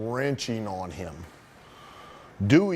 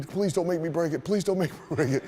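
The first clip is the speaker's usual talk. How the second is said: mock pleading, pitched up; hurried, higher-voiced retold plea; 4 semitones higher, faster than usual. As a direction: imitate a man begging the ref. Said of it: "I just remember him pleading".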